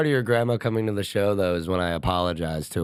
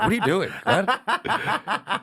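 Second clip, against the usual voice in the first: mock confusion; 11 semitones higher, much slower than usual. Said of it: "I'm like".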